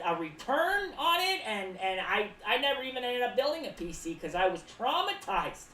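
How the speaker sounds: a hint of a traumatized storyteller; telling a wild story. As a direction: spin the tale with mock drama. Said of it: "You could say".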